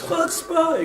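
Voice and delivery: imitating a shouted outburst; retold scream. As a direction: fling out the word in indignation. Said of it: "he kept screaming".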